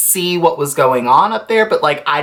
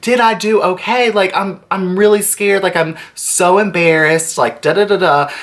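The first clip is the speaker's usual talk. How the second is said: imitated upset friend; 5 semitones higher than usual. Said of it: "she was just so upset".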